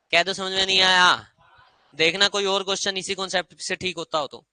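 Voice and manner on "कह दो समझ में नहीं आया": louder insistence. Shown as a demonstration.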